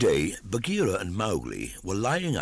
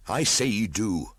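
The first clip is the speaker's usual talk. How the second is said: raised, insistent denial; angry retort; 5 semitones higher, 4 dB louder than usual. A narrator's reading. Mowgli contradicts Bagheera angrily. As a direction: snap back at the panther. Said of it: "said Mowgli angrily".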